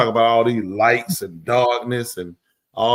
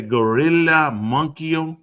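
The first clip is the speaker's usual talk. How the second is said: mock Spanish; 2 semitones higher, much slower than usual. Mock Spanish attempt at her phrase.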